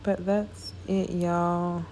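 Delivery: words stretched by a tired yawn. Real, not acted. Tired stylist to her viewers, mid-yawn. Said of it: "Excuse me for yawning".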